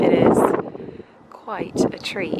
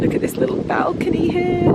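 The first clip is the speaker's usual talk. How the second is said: excited; 11 semitones higher than usual. Real, not acted. Excited at the view.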